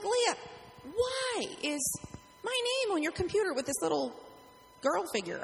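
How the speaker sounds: high, puzzled question to Leah; surprised, asking what this is. Retold or imitated.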